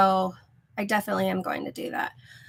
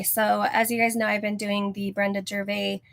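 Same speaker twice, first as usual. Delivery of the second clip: out of breath. Real, not acted. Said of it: "Sorry, I'm out of breath".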